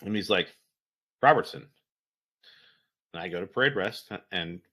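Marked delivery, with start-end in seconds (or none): 1.2-1.7 sudden loud, higher call; squad leader calling out. Retold or imitated. Squad leader summons his specialist, loud sharp call. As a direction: call a subordinate to attention, louder. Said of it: "my squad leader walks up and he's like".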